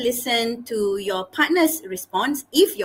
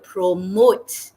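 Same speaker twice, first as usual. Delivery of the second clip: "promote" drawn out slowly; stress on promote; 4 dB louder than usual. Shown as a demonstration. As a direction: lean slowly on the word "promote". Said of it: "repeat and stress on certain words".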